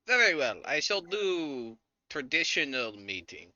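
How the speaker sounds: lightly voiced formal orc lady, drawn-out ending; orc lady's declaration. Orc lady agreeing to a traditional meeting, lightly hammed-up formality. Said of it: "She goes".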